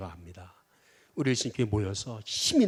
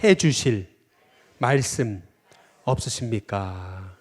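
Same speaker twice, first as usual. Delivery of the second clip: louder and slow, spaced for the crowd to echo; preacher leading a call-and-response; slow call to repeat; 4 dB louder, much slower than usual. Shown as a demonstration. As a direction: declaim it slowly so everyone can repeat it. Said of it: "또 따라해 보겠습니다".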